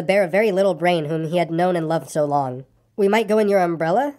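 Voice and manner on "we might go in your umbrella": "umbrella" offered in near-usual pitch; first, understated offer with "umbrella" lightly lifted; simple suggestion. A narrator's reading. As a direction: make a mild suggestion ending on "umbrella". Pooh's line repeated, escalating each time.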